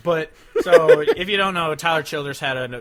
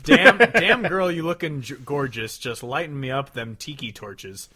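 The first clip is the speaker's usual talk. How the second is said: hammed-up, slow, loud crooner line; mock lyric reading; 2 semitones higher, 8 dB louder than usual. Reading the lyrics out to his co-host, in a hammed-up crooner voice. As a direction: ham up the cheesy lyric. Mocking song lyrics read aloud.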